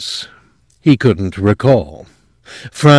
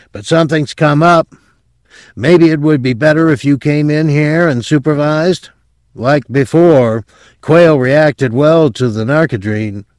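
slightly urgent subordinate, higher and louder; lightly voiced apologetic technician; 7 semitones higher, 4 dB louder than usual. A narrator's reading. Technician asks boss to supervise, higher and mildly urgent. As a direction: lightly play a worried assistant, pitched up.

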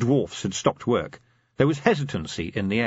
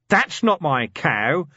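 slow, louder denial; slow loud insistence; deranged insistence; 4 semitones higher, 4 dB louder, slower than usual. Acted. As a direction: tell it to the burning cave. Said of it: "he said".

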